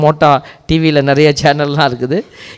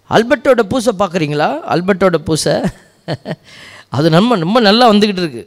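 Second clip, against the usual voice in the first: imitating a four-year-old, pitched a little higher; lightly voiced small child; 5 semitones higher than usual. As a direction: quote a little boy in a lightly raised voice. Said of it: "அவர் நாலு வயசு". (நாலு வயசுக் குழந்தை போல லேசாகப் பேசி)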